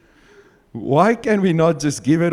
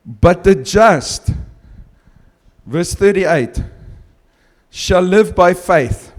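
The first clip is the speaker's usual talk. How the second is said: scripture reading; slower than usual. Shown as a demonstration. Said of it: "I just wanna read a small part here".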